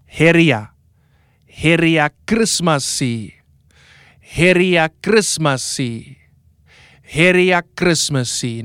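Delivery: "Heria Christmasi" with stress on HEH and a final -si; teaching pronunciation of "Heria Christmasi". Shown as a demonstration. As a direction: model "Heria Christmasi" for the class to repeat. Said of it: "Now say Heria".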